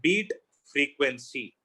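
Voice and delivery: slow, drawn-out projected delivery; loud demo, slowly spoken; demonstrating loud speech. Shown as a demonstration. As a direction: stretch each word out slowly, projecting. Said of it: "now I'll speak loud".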